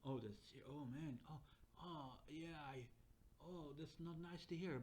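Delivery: sympathetic. Acted. AI acting out sympathy.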